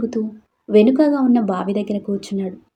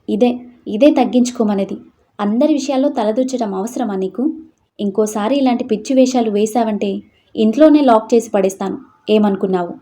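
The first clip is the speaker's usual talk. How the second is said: louder, heated warning; angry threats; 4 dB louder than usual. Acted. Father warns daughter he will lock her in, heated loud threat. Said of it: "BP ఎక్కువై అరుస్తున్నాడు".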